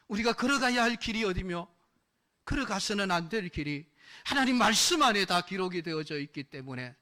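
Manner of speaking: rising preaching. Real, not acted. Preacher's climax.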